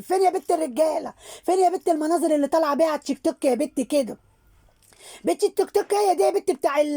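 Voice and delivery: put-on high, quick scolding of a cheeky girl; mocking scold. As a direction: tease her like a nosy neighbour woman.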